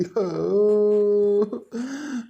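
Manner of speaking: a single drawn-out sob. Acted. Man searching for the drowned wife breaks into a sob. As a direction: let out one long sob. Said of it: "रडू नको पमू".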